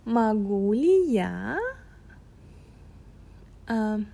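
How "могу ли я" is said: "Могу ли я" said slowly alongside the learner; slow repeat together. Shown as a demonstration. Repeating the Russian with the listener, slow together. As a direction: say it along with him. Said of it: "say it with me".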